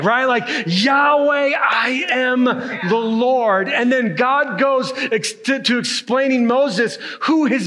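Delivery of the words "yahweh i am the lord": booming, slow call of the divine name; thunderous yell. Retold or imitated. God calling out his name to Moses, booming slow shout. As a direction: call it out like thunder rolling over the mountain. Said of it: "if you can imagine thunder yelling Yahweh".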